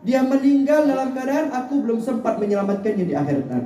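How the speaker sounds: high-pitched pleading, voiced for the Prophet; retold tearful lament. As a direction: grieve aloud over a soul unsaved. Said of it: "Nabi nangis".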